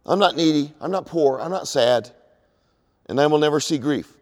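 loud, emphatic boasting on not; boastful queen. Retold or imitated. Babylon boasting as a queen, loud and emphatic. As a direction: insist proudly, punching every not. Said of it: "she says in her heart".

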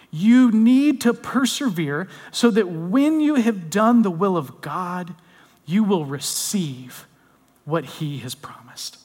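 slow, weighty Bible reading; scripture reading. Acted. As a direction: read the verse out slowly, letting each phrase land. Reads the Bible verse aloud.

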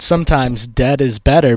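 lightly done mock Maine accent. Host quoting the movie's tagline, mock Maine accent. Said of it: "this terrible Maine accent".

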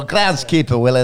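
Groundskeeper Willie in a light Scottish burr; a somewhat better Scottish impression; Scottish accent. Retrying the impression for co-hosts, mild Scottish accent. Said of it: "That's a bit better".

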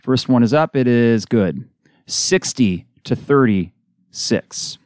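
brisk radio game call; steady basketball announcer rhythm; live play-by-play. Real, not acted. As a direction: call the action as it happens. Play-by-play of free throws.

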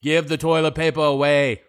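a light, offhand impression with a changed timbre; tossing off a quick joke impression of a president; Donald Trump impression. Host jokes to cohost about his bad accent, light impression. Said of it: "That's my Donald Trump".

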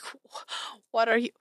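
high, loud exasperated yell; angry shout. Acted. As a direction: snap at him in disbelief. NPC angrily confronts, loud high.

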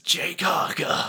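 slow, jaw pushed forward; underbite voice. Shown as a demonstration. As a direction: speak with your neck muscles. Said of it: "you have to sort of speak with your neck muscles".

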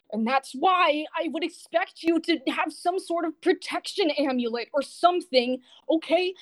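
acted young man at his wits' end; agitated. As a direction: plead your case, stressed and upset. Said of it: "seems to try to calm him down".

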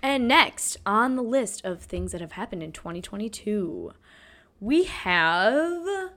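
lightly put-on news anchor read; mock news anchor. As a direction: introduce the next item like a playful anchor, drawing out the last words. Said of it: "reading these like a news anchor".

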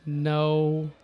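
drawn-out words with long pauses between them; slow, word-by-word, as if dazed; halting, spaced-out delivery. Pretend. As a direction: leave big gaps between words, breaking into laughter. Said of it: "It sounds like that we've been smoking".

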